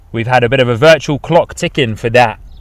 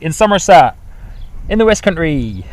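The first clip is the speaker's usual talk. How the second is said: playful mock West Country accent, slightly raised pitch; 3 semitones higher than usual. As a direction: put on a light Bristol burr for fun. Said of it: "with the Brizzle accent".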